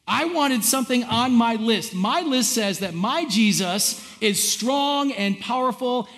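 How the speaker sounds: acted-out indignant believer; demanding complaint. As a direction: insist on getting your own way.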